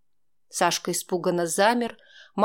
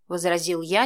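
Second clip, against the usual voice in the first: usual speaking voice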